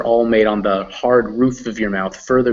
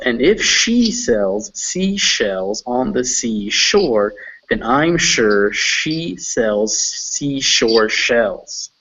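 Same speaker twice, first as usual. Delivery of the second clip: tongue twister demo; much slower than usual. Shown as a demonstration. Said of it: "it goes".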